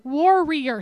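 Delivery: warrior said war-ree-er; careful warrior. Shown as a demonstration. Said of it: "my Texan means that sometimes I say warrior".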